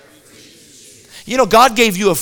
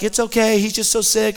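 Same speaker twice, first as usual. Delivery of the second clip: soft, soothing mother, lightly acted; pleasant mother; 6 dB quieter than usual. Mother reassuring the family about her sick son, softly pleasant. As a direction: gently excuse the sick child. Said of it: "so Pleasant's like".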